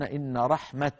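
رحمة ending with an open ت when stopping; dialect pause form. Shown as a demonstration. Teacher shows how some Arabs stop on رحمة. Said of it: "وبعض العرب يقولون".

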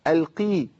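القي with a clear ee after the q; clear kasra on qaf. Shown as a demonstration. Teacher models the correct qaf, clear kasra in القي. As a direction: say القي with a true i vowel. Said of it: "القاف مكسورة".

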